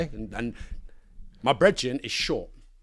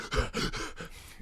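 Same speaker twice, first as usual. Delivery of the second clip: sharp breathy exertion puffs; mimicked huffing in short bursts; imitated workout puffing; 5 dB quieter than usual. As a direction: puff like someone mid-workout.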